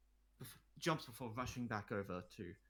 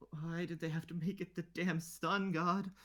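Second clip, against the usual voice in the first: louder, slower, fed-up thought; exasperated inner groan; 8 semitones higher, 7 dB louder than usual. Acted. Queen inwardly curses the sun god statue, louder and exasperated. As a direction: grumble it to yourself in dismay. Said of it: "you think to yourself".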